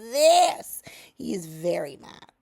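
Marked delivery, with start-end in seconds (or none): 0.1-0.8 high, shocked mock outrage; retold angry boss; livid disbelief. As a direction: sputter at him in disbelief. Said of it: "Elon was livid".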